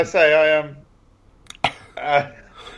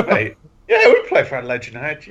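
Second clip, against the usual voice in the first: laughing mock boast. Acted boast to two women.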